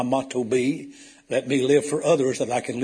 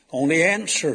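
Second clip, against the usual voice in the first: retold tearful cry; 6 semitones higher, 4 dB louder than usual. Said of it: "he broke down, started crying".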